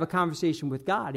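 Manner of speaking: a conversation with God said softly, voice sinking; soft and low. Acted. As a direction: drop low and soft on God, with a falling end. Repeated sermon point.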